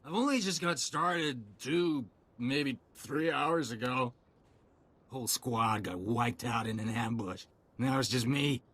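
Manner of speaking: tipsy, halting soldier's ramble; drunk. Acted. Soldier telling a stranger of the lost squad, drunk. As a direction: ramble through it like someone a few drinks in. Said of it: "You smell like you've had a few too many drinks".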